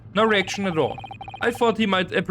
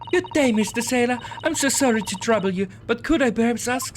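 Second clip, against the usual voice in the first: overly polite, sweet approach; butter him up with courtesy; extra polite; 3 semitones higher than usual. Acted. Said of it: "All right, let me try instead".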